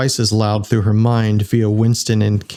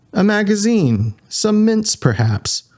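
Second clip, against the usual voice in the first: sarcastic offer; 10 semitones higher than usual. Acted.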